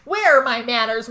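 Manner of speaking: loud, jovial entrance line; hearty mock bluster. John barging in on Mary and her ex, loud mock-hearty bluster. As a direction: announce yourself boldly as you barge in.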